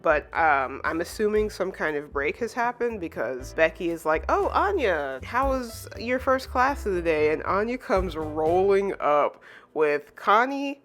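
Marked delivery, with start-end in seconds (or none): 4.3-7.3 high-pitched, chirpy mock greeting; retold eager greeting. Becky asking Anya about class, high eager greeting. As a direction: imitate a friend calling out in greeting.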